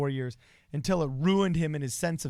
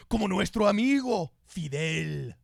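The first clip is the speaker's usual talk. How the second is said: Bernie Sanders impression; 4 semitones higher than usual. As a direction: rant like Bernie at a rally, in Spanish. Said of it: "this is how Bernie Sanders would speak".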